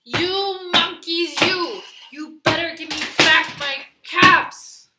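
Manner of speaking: loud, high, slow furious demand; quite angry. Acted. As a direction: stamp and yell it at them. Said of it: "Now he felt quite angry".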